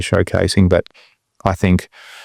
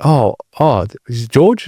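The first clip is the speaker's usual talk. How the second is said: nervous fan; 3 semitones higher, slower than usual. Retold or imitated. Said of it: "the guy got nervous speaking to me".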